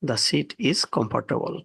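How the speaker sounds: very slow, word by word; slow example read. Shown as a demonstration. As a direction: read the ship line at a crawl for learners. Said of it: "example sentence read slowly". (ধীরে ধীরে পড়া উদাহরণ)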